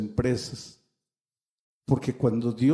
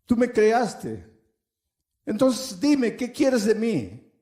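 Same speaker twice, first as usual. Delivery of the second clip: crying out to God; 4 semitones higher than usual. Retold or imitated. A man on the roadside crying out to God, a building mock outcry. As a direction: build a retold plea to God, climbing in pitch. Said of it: "él habló con Dios a gritos".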